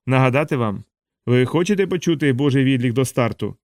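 fervent revival preacher, rolling cadence; preaching. Acted. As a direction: preach it to the crowd like a tent revival. Preacher's sermon within story. (палка проповідь)

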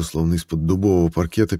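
ordinary delivery

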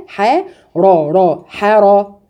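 ح then را slowly, heavy ر; syllable drill. Shown as a demonstration. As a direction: split حرا into syllables slowly. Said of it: "الراء هنا مفخمة". (حرا مقطعة ببطء)

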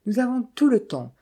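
bright, lifted and cheery reply; cheerful. A narrator's reading. Morbihan cheerfully reassures the Americans, gaily. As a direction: brush off the worry gaily. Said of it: "répliqua gaiement de Morbihan".

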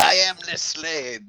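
put-on French accent. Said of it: "outrageous French accents".

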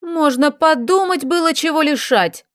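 high, mocking scoff. A narrator's reading. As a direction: sneer at the idea. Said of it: "хмыкнула Машка".

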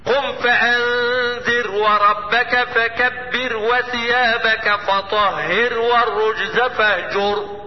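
slow recitation with sukun on the ra; Quran recitation. Shown as a demonstration. Teacher repeats verse to show silent ra, slow recitation. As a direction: recite slowly, resting on the silent ra. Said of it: "لأن الراء هنا ده فعل أمر مبني على السكون".

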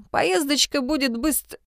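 breaks off abruptly mid word; cut off mid word. Acted. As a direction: stop sharply partway through the word. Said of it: "Он осёкся на полуслове".

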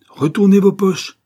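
loud, high, slow command; barked order. A narrator's reading. Martin ordering the manager to empty pockets, commanding. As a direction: order it forcefully, word by word. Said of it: "ordonna Martin".

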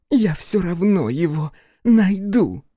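very high, loud angry cry; drunken fury. Acted. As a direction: snap at him, furious and tipsy. Drunk daughter vows.

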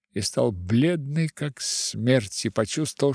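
plain reading voice

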